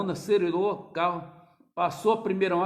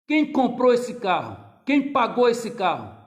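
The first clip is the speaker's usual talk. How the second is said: indignant challenge; 5 semitones higher, 7 dB louder, slower than usual. Retold or imitated. Father challenges son.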